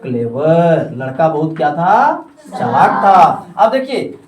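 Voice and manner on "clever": slow, spaced words with pauses; pointing at each word on the board. Shown as a demonstration. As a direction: read each word separately. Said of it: "यहाँ पे क्या दे दिया".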